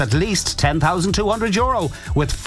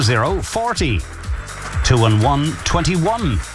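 bingo caller. Acted. Calls the bingo numbers.

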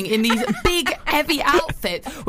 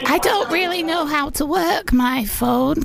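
put-on helpless old lady; mock-feeble elderly phone voice; elderly grandmother. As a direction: play a granny baffled by technology. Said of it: "grandmother and granddaughter".

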